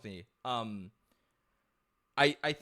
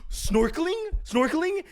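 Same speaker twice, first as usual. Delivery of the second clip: eager hawker imitation; 13 semitones higher than usual. Imitating pushy vendors swarming him.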